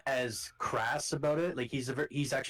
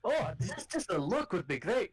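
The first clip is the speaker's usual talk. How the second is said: put-on Scottish accent; 6 semitones higher than usual. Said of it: "I know somebody who talks like this".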